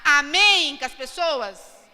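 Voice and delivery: ordinary delivery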